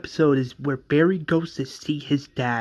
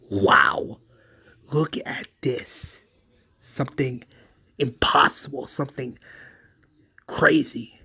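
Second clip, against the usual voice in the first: awed whisper. Retold or imitated. Wells recalls awe at Barry.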